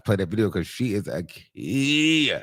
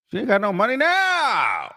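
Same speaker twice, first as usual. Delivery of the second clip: disbelieving; 9 semitones higher, 3 dB louder than usual. Real, not acted. Repeating disbelief.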